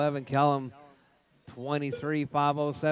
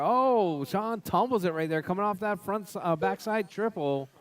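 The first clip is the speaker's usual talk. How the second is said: higher, excited call of a crash; 5 semitones higher than usual. Real, not acted. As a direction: react to the tumble, excited. Car flips during race.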